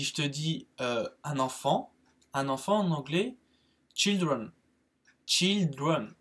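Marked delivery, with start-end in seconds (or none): 3.9-6.1 put-on children with a short i, slowly modelled. Shown as a demonstration. Teacher giving students an English example, children with short i. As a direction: say children with a French-style i. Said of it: "c'est children".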